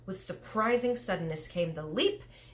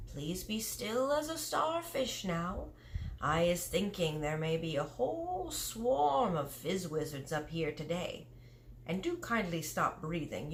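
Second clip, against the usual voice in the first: lightly voiced giant, hushing. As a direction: keep her still while he waits for dreams. BFG hushing Sophie while hunting.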